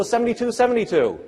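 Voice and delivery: put-on high, keen repeated child's answer; eager kid answer. First grader blurting the answer, high and eager. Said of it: "They'll go".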